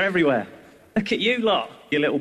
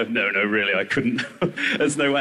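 prim refusal; 7 semitones lower than usual. Retold or imitated. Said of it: "they go".

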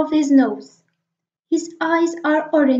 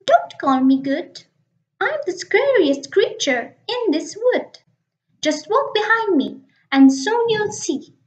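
a touch of mock bravado, higher; boastful mouse; 4 semitones higher than usual. Mouse bluffing the Gruffalo, mock brave. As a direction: puff up like the scariest creature.

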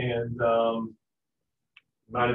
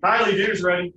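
loud, high call across the house; loud dinner call; 6 semitones higher, 7 dB louder than usual. Retold or imitated. Parent calls child to dinner.

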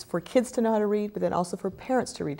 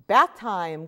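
calling out; 3 semitones higher than usual. Acted. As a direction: call the kids to the bath. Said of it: "calls out the pirate mommy".

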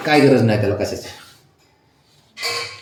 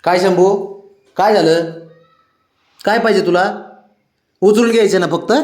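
high, lively coaxing questions; playful high-pitched doting; pet talk; 7 semitones higher, 3 dB louder than usual. Real, not acted. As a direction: fuss over a demanding pet, voice raised. Fussing over the pet Shambhu.

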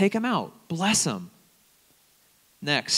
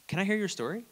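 gentle invitation; 6 semitones higher, 3 dB quieter than usual. Shown as a demonstration. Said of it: "Here it comes".

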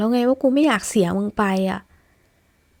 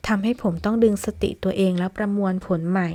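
plain reading voice

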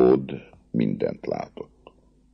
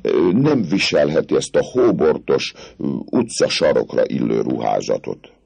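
higher, coaxing officer's voice; smooth-talking captain; 6 semitones higher, 3 dB louder than usual. Acted. Captain sweet-talking the gypsy girl, coaxing. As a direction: charm her out of her clothes.

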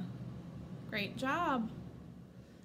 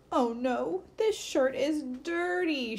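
mock upset cry; 4 semitones higher, slower than usual. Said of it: "she cried".

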